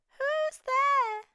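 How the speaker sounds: high little mouse calling out; squeaky mouse. Acted. Mouse hearing a stranger in the den, high squeak. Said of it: "Mouse cries".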